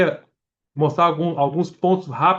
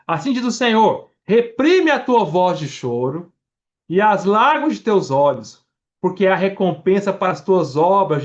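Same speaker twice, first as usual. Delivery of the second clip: forceful scripture reading; 5 semitones higher, 4 dB louder than usual. Acted. Preacher proclaims God's answer to Jeremias, raised and forceful. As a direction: proclaim it like the word of the Lord.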